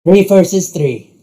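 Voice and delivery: high, theatrical proclamation; excited announcement. Acted. Rook sets up the teams, excited. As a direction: announce the match with gusto.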